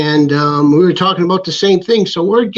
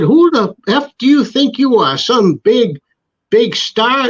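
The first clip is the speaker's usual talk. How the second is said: mock angry retort; 7 semitones higher, slower than usual. Promoter angrily confronting the wrestler.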